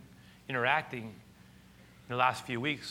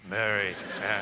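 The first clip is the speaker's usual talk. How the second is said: tender calling of her name; 6 semitones lower than usual. Acted. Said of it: "I don't even know how you said it".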